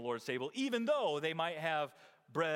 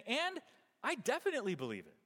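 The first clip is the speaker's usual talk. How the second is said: firm and certain, quick; emphatic belief; 7 semitones higher than usual. Retold or imitated. Voicing Paul to the church, firm and sure. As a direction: say it with total conviction. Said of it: "he's actually saying".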